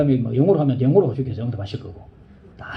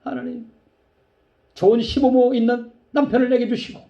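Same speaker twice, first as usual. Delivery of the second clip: tearful prayer; 7 semitones higher than usual. Retold or imitated. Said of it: "울면서".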